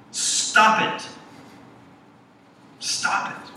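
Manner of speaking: imitating the therapist's shouted order; repeated shout. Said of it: "his response is the same each time".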